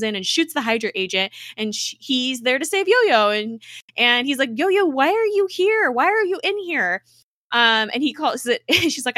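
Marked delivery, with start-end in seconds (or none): 4.5-7.0 high, loud, insistent retold question; mock bewildered. Radcliffe finding Yo-Yo inside the framework, mock bewildered. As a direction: urgently imitate his baffled questioning. Retelling his startled question to Yo-Yo.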